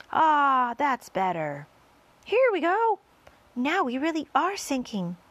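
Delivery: loud, high-pitched cry of relief; excited relief. A narrator's reading. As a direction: cheer as it starts working. Relief as the peach descends.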